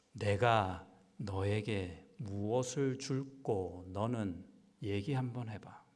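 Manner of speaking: slow, gentle, inviting; gentle offer. Retold or imitated. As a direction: ask it slowly like a kind father offering a gift. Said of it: "이러셨습니다".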